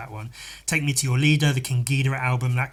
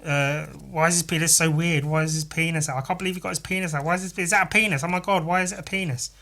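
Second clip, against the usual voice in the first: high, whiny imitation of outraged commenters; mocking shocked commenters; 5 semitones higher, faster than usual. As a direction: mimic the shocked comment section, pitched up. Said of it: "leaving comments going".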